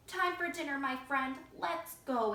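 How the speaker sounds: loud, cheerful call; farmer's exclamation. Acted. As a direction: call out heartily to the turkey. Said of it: "exclaimed Farmer Joe".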